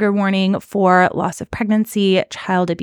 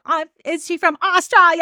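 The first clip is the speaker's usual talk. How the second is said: lightly voiced puzzled actor, a bit higher; a light hint of a bemused celebrity; Paul Rudd impression; 8 semitones higher than usual. Recalling how an actor asked about the accent, lightly higher. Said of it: "Paul Rudd being like".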